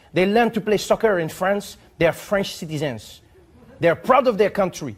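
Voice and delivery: put-on lightly French-accented formal letter read; a hint of a French diplomat reading aloud. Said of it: "He says".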